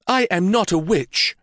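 a touch of rising alarm, insist on it. A narrator's reading. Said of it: "Catherine insisted".

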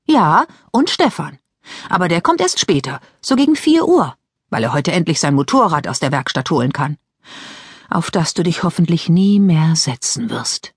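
lightly voiced Mary Lou; lightly voiced teenage girl. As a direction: play the sister, chatty and a bit impatient.

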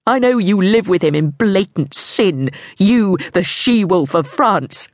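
accusing dead king, voiced lightly; a hint of a vengeful ghost. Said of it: "she heard his voice".

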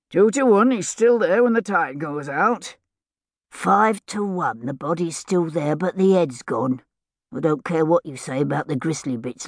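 lightly voiced rustic idler, haggling over odds; a touch of a rough dockside bettor; idle gamblers wagering. Idlers wagering on the drowned pirate's body, lightly rough rustic voices.

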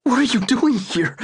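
high, choked question. Acted. Son chokes out a question over his dying father. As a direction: ask through a tight throat. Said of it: "Zach choked".

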